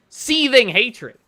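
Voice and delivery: mocking, high, slow drawn-out quote. Mocks someone's phrase, dragged out.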